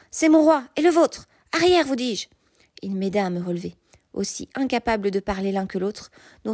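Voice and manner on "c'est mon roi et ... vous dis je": high, loud, commanding cry; shouted order. A narrator's reading. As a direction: order him back with full authority. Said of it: "cria Lancelot". (ordre crié avec autorité)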